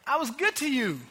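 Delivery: high-pitched exasperated appeal, acted out; mildly hammed-up hurt frustration, not shouted; frustrated. Preacher voices God frustrated with the Israelites, exasperated pleading. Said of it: "he's frustrated with the Israelites".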